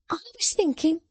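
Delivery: high, sharp scolding voice; scolding little woman. A narrator's reading. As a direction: scold him like a child. Jenny's voice.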